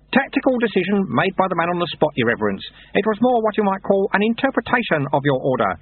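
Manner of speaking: lightly voiced wry old monk; dry, knowing old sweeper; old monk Lutze. A narrator's reading.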